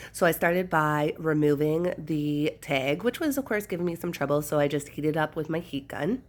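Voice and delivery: stuffy nasal voice from a cold. Real, not acted. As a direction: talk through a blocked nose. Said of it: "for my nasally voice".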